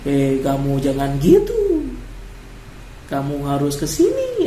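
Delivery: slow, lilting Papuan Indonesian intonation. Shown as a demonstration. Teacher demonstrating the Papuan intonation to fellow teachers, slow. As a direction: demo the Papuan Indonesian speech melody, unhurried. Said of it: "mempelajari intonasinya orang Papua".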